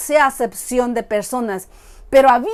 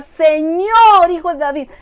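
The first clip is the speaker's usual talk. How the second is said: pleading cry; 3 semitones higher, 4 dB louder than usual. Acted. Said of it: "Imagínense los gritos que ella pegaba".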